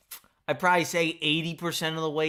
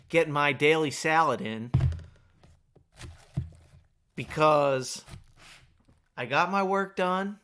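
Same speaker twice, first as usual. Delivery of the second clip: chewing while talking; mouth full. Real, not acted. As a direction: talk through a bite of salad. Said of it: "hear me chewing away like a rabbit".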